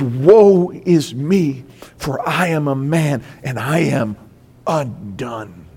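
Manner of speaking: slow lament sinking low and hushed; acted-out prophet undone before God; broken woe. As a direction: let the despair drain down to a low, quiet end.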